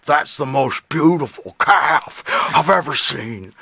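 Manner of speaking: creepy horror-villain impression; Tim. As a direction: savor it like a mock movie psycho. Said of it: "Silence of the Lambs and Saw".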